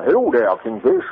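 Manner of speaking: a hint of the Kingfish, low and playful. Talking to his buddy Lee, lightly in the Kingfish voice. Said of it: "I always talk like the kingfish".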